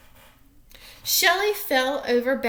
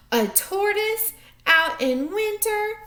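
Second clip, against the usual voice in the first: high, loud quacking duck voice; scornful duck; 10 semitones higher, 5 dB louder than usual. Acted. Duck voice in read-aloud story.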